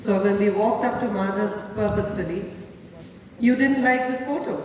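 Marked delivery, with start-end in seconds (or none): 3.4-4.6 didnt thrown back with a scornful rise; mock him by throwing back didnt; mocking echo. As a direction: repeat his words back in contempt. She throws his words back.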